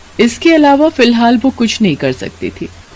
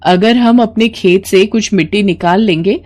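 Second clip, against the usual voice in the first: higher, brisk and decided; determined young bahu; 3 semitones higher than usual. Acted. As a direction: convince her mother-in-law. Mala explains. (दृढ़ निश्चयी बहू)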